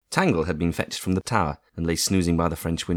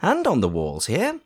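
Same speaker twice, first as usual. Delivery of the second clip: soothing aunt; 9 semitones higher than usual. A narrator's reading. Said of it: "said Aunt Bridget soothingly".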